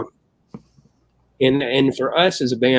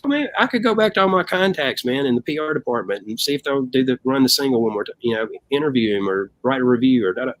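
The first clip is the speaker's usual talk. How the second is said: eager chip-in; 2 semitones higher than usual. Retold or imitated. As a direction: pitch in like you want in. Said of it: "the guy next".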